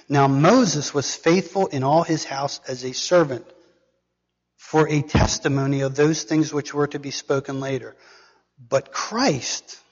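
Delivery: deliberate, weighty Bible reading; scripture reading. Acted. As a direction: read scripture out in emphatic, spaced phrases. Reads scripture aloud to congregation.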